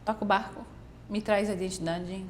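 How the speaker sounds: a hint of the worried niece asking what's wrong; concerned niece. Niece asking her crying aunt what happened, lightly voiced concern. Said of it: "dela assim".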